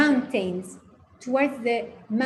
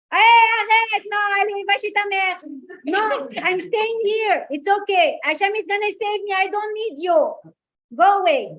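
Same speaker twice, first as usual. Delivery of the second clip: put-on Maurice Benguigui accent; 8 semitones higher, 5 dB louder than usual. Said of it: "the accent of Maurice Benguigui".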